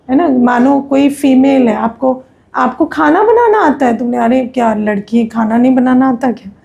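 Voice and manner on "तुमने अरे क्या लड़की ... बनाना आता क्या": normal talking voice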